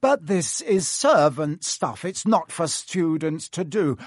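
lightly voiced snobbish protest; whiny Malfoy.

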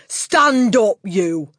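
loud, commanding shout; Trunchbull. A narrator's reading. Headmistress ordering a boy to his feet, shouted. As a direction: shout the order, starting high. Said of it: "she shouted at him".

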